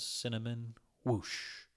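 ordinary delivery

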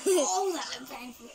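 can't hold in the laugh. Real, not acted. Laughing at a fall.

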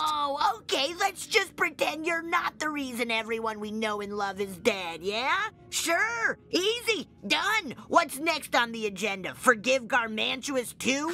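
bitter sarcasm. Acted.

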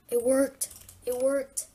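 loud, high-pitched thrilled exclamation; excited shout. Real, not acted. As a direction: cry out in real amazement that it worked. The puzzle door finally opens.

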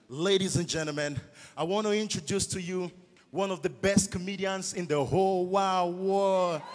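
put-on white foreigner's accent, announcer style; Oyibo accent. Shown as a demonstration. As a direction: introduce the act in a mock Oyibo accent. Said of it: "based on that Oyibo accent".

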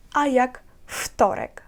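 "вторик" with devoiced w, said as ftorek; correct devoicing. Shown as a demonstration. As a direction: say "вторик" starting with a clear F sound. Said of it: "не вимовляється як вторик". ("вторик" з оглушеним в, як фторек)

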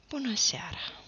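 breathy hushed good evening; gentle whispered hello in the dark; soft greeting. A narrator's reading. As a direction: say it softly, almost a whisper. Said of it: "zise el moale".

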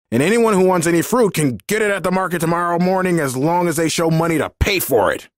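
high, fast angry yell. A narrator's reading. Landowner yelling that fruit must be paid for. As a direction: build to a rapid, high-pitched yell. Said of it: "he yelled".

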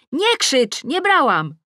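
high, loud defensive yell; shout. A narrator's reading. Tosia denying it from upstairs, shouting. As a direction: shout back in protest. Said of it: "z góry słyszę krzyk Tosi".

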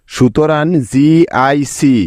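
slow spelling. Shown as a demonstration. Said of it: "এখানে ক এর সম্পূর্ণ উচ্চারণ হচ্ছে না".

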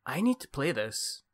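lightly attempted Canadian accent; mock Canadian guy, mild accent. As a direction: have a go at sounding Canadian. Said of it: "That's the best Canadian accent I can do".

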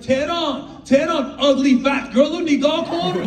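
scolding like a dad, mock; imitating dad. Dad scolding his son, lightly voiced. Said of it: "He's like".

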